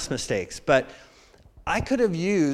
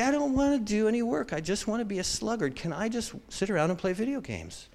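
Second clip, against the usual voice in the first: whining sluggard; 4 semitones higher, 7 dB quieter than usual. Retold or imitated. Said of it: "Just making up stories to say".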